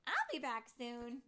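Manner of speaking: loud, high parting shout; calling out. A narrator's reading. Tink calls farewell to Pixie Hollow, calling out. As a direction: call back a cheery promise. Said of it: "she called".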